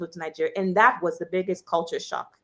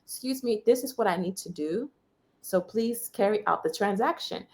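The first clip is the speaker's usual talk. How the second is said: softer, calm, even request; gentle voice; 6 dB quieter than usual. Retold or imitated. Calmly ignoring the shouting man, gentle. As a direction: ignore him and speak gently to the clerk. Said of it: "I said it in a very gentle voice".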